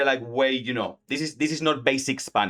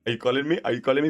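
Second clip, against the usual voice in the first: dog voice; 2 semitones higher, much faster than usual. Pretend. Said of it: "my dog is gonna be like".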